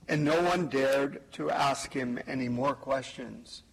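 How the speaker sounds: measured scripture reading at Mass; gospel reading. Acted. Priest reading the gospel to the congregation, solemn.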